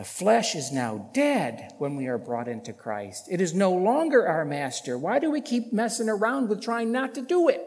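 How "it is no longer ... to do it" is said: high, insistent preacher's challenge; emphatic preaching. Real, not acted. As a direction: press the congregation with a raised voice. Preaches at full force.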